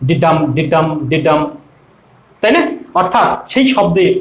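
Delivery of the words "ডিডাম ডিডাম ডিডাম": low ডিডাম, weight on ডাম; light ডি then firm ডাম, in steady pulses; iambic beat. Shown as a demonstration. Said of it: "যদি আমি বলি".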